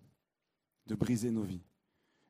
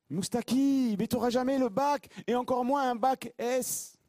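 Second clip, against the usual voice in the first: high, louder scornful teacher; mocking teacher; 11 semitones higher, 3 dB louder than usual. Teacher mocking the student in front of the class, high and scornful. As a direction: sneer down at the pupil. Mes professeurs me disent.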